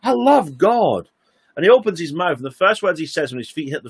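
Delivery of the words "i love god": high, slow and awed, rapturous; high, slow, rapturous quote; glorious joy. Retold or imitated. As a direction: lift it up high and drawn out, overwhelmed with joy. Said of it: "Charles gets out of bed and he says".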